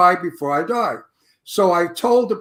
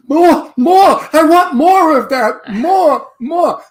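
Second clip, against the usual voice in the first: louder, higher excited yelling; director screaming; 8 semitones higher, 7 dB louder, slower than usual. Retold or imitated. Director runs over to actor, excited louder yell. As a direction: shout for more like a thrilled director. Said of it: "The director came running over to me screaming".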